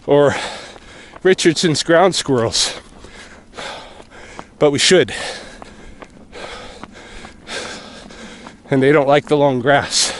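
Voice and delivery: panting between phrases; winded from running uphill; out of breath. Real, not acted. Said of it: "talking and running up hill is not easy".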